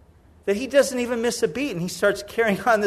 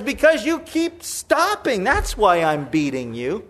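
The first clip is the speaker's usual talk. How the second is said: angry retort; slower than usual. Acted. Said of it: "Balaam gets angry".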